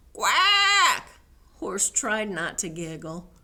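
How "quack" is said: one loud, high quack; quacking cow. Acted. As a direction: blurt a long duck quack. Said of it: "said Cow".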